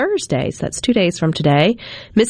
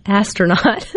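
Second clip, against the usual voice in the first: laughing retry; 3 semitones higher than usual. Real, not acted. Laughing retry of stumbled word.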